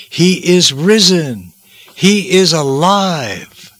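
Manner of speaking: the angel announcing the resurrection to the women; triumphant proclamation. Acted. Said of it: "the angel of the Lord said to them".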